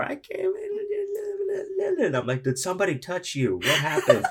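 high, fast mock panic, laughing through it; panicked friend. Retelling the friend's panic at the car, high and frantic. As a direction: ham up the frantic questions.

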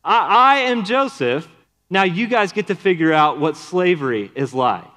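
mock revenge.

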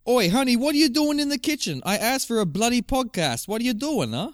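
high-pitched, hammed-up British husband; British accent. Husband calling honey in the kitchen, British accent. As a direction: demand answers in a high British voice. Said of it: "I'm still going into the British accent".

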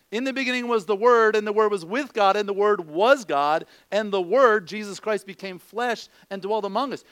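each Word punched loud and proclaimed; scripture recited. Acted. Pastor to congregation, proclaiming John's opening loud. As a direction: declare it like holy writ. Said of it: "reciting scripture with emphasis".

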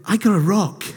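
lightly voiced glum Charlie Brown, rising to a laugh; a hint of Charlie Brown ending in a laugh. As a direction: mope it out like Charlie Brown, then crack up. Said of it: "This is where Charlie Brown comes in".

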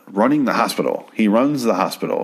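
pointed emphasis on "runs"; emphatic. Real, not acted. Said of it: "Okay, that's important".

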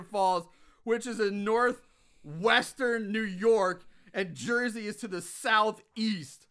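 emphatic, spelled-out disbelief; exasperated rant. Real, not acted. Host rants about which way New Jersey lies, exasperated. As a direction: lay out the geography with mounting exasperation. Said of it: "I'm gonna go on a rant here".

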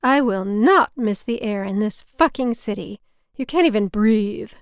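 hammed-up gripe about the city air; remembering the mother griping about the city air; mother's voice. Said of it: "I could hear my mother's voice in my head".

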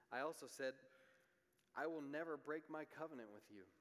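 reading scripture with rising force; solemn Bible reading, building then settling. Acted. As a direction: proclaim the passage like God's own words. Reads scripture aloud.

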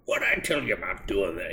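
lightly voiced cranky old man scolding; a hint of a grumpy old-timer nagging the kids; old fuddy-duddy. Host mocks the hero as a nagging old fuddy-duddy. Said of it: "sounds like an old fuddy-duddy".

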